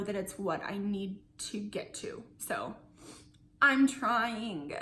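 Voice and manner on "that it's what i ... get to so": dropping to a whisper. Real, not acted. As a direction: let it fall to a whisper. Admitting struggle, voice drops away.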